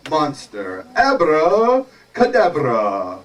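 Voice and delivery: lightly voiced pompous wizard, slowing into the spell; wizard casting spell. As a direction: draw out the magic word grandly. Wizard answers and casts spell.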